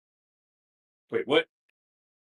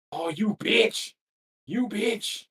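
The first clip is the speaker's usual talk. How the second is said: frustrated yell; 5 semitones higher, 3 dB louder, much slower than usual. Real, not acted. Boss beating him.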